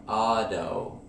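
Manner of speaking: auto said as "ado"; flap T demo. Shown as a demonstration. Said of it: "notice the D sound".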